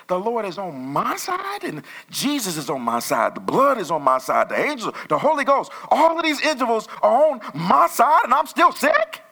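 building to a loud, high indignant cry; rising defiant proclamation against sickness; bold declaration. Shown as a demonstration. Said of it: "That's how you have to talk".

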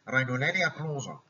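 congested, as with a cold; blocked-nose voice. Shown as a demonstration. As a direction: speak as if your nose is shut. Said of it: "بتلاقي صوتك مزكم كده". (صوت مزكوم ومخنف)

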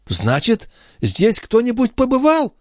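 put-on high, fast fussing old woman; mock-innocent old concierge. A narrator's reading. The concierge pretending not to know where the watch went, high and fussy. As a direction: play dumb, all fluster. Grivette to Marat.

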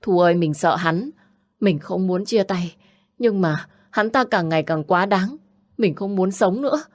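mildly distressed pleading; mock tearful complaint. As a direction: confide fear with a touch of desperation. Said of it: "ôm chầm lấy Thu khóc lóc". (giọng khóc lóc than thở nhẹ)

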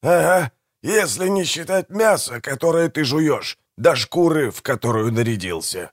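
high-pitched, scoffing comeback from a character; snorting retort. A narrator's reading. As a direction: pitch it up and scoff back at your brother. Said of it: "фыркнул Манфред".

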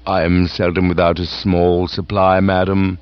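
calm, unruffled butler replies; deferential butler. Acted. Jeeves answering the aunt's questioning.

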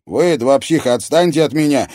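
indignant outburst at the pair; indignant exclamation. A narrator's reading. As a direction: push them away with indignation. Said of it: "возмущённо воскликнул Алекс".

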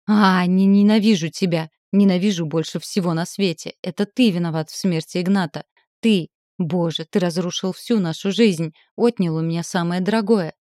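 громко, на пределе, в ярости; выплеснуть всю ненависть ему в лицо; яростный крик. Acted. Героиня в ярости бьёт Макса. (яростный крик)

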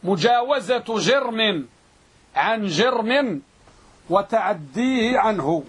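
slow, chunked repeat of a definition; measured pace for students taking notes; slow dictation. Shown as a demonstration. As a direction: dictate deliberately, pausing after each phrase.

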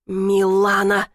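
slow, mildly barked name. Acted. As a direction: bark her name to stop her. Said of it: "рявкнул босс".

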